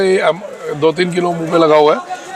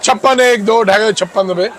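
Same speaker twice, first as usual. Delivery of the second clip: auctioneer; slower than usual. Acted. Auctioneer calling bids.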